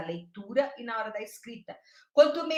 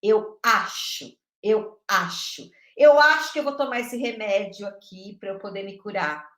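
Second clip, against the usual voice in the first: mocking guesswork; 6 dB louder than usual. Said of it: "pra gente se basear no achismo".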